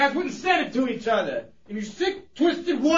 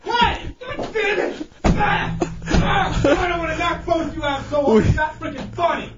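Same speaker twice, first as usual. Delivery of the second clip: angry outburst. Acted. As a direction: burst out angrily. Angry host scolds laughing co-hosts.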